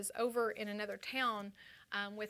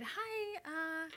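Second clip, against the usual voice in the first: higher, a touch nervous rambling; rambling voicemail; 4 semitones higher, 4 dB quieter than usual. Retold or imitated. Second voicemail to Kent, higher nervous rambling. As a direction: chatter on a bit too brightly. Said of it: "left another voicemail that said".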